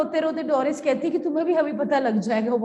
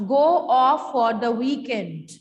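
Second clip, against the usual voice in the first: aghast; 5 dB louder, slower than usual. Acted. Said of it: "Doris, aghast".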